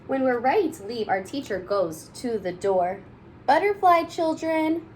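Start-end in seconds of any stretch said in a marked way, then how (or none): 3.5-4.8 high, loud sing-song farewell; cheery goodbye. Acted. Teacher calling goodbye at the door, high and loud. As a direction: call it out at the door.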